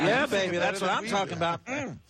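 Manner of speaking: very high, hammed-up sultry coo; mock sultry. Rock star teasing the caller with a high mock-sultry coo. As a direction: squeal it like a teasing come-on. Joking reaction to a caller's line.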